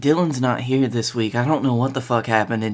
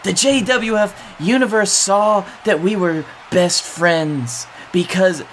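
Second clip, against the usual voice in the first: a hint of a heel promo, deliberate and taunting; lightly voiced wrestler trash talk; wrestling promo; 3 semitones higher, slower than usual. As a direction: cut a promo on your rivals. Wrestler cuts promo on rivals.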